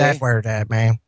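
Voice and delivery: put-on a light, half-hearted Glasgow accent; mock Scottish accent. Cohost correcting the host's accent with his own mild Scottish accent. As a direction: show them how Glaswegians sound, lightly. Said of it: "no, it's more like this".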